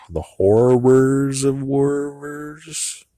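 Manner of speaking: high, slow, mock-grand; mock dramatic. Mocking the show's war theme grandly. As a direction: ham up the phrase.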